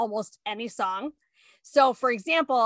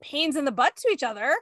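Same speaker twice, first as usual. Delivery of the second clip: defensive; 4 semitones higher than usual. Retold or imitated. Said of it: "And I go".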